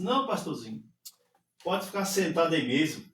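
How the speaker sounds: mock condescending refusal; disdainful. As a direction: brush the little pastor off, mildly scornful. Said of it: "Se desdenhou de mim".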